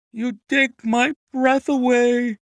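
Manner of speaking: high, loud, drawn-out amazement; astonished. A narrator's reading. Colonel learning the horse is his, astonished. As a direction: exclaim slowly, utterly amazed.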